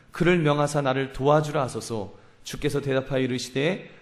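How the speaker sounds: measured, solemn Bible reading voice; scripture reading. Acted. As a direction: read the verses out like a pulpit lesson. Reads Luke 10 scripture aloud.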